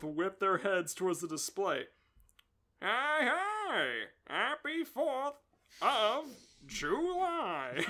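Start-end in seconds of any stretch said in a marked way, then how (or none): 2.8-7.8 cheery exclaim. Acted.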